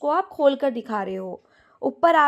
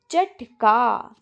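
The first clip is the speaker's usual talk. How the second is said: चटका stretched out very slowly; slow demo word; 2 semitones lower, 4 dB louder, much slower than usual. Shown as a demonstration. Teacher naming the bird word for students, very slow. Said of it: "कहा जाता है".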